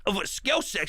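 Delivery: choked-up, faltering delivery. Real, not acted. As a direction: voice catching with emotion. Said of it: "See, I'm getting choked up".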